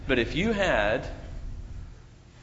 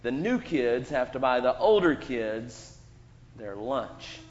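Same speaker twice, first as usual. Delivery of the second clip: mock bully; 2 semitones lower than usual. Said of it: "I start making fun of you".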